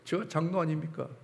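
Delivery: rising indignant grumble to God; retold complaint. Elder grumbling to God about cleaning toilets, indignant. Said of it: "불평을 하기 시작하는 거예요".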